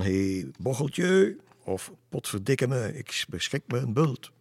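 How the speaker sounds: high, loud mock taunt; teasing mimic. Roel imitates their old teasing, high mock taunt. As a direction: ham up the playful insult. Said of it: "We plaagden elkaar soms wel".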